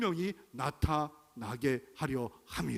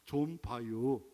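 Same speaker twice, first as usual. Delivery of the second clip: put-on slow Chungcheong accent; 4 semitones lower, much slower than usual. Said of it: "충청도는 뭐라고 하는 줄 알아요".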